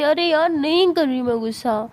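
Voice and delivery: loud annoyed denial to a nagging friend; irritated snap. Acted. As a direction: snap back, fed up with being asked. Friend insists she isn't angry.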